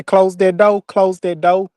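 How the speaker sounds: "close that door" with door said like "doe"; Southern twang. Shown as a demonstration. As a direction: drop the r in "door", country style. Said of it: "When I say".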